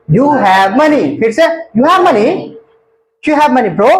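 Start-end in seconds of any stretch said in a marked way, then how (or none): 0.1-1.0 slightly brisker model phrase; mildly quicker repetition; a little faster. Shown as a demonstration. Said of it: "फिर से थोड़ा तेज". 1.8-2.3 brisk run-together model phrase; quicker practice repetition; faster. Shown as a demonstration. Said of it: "फिर से थोड़ा तेज".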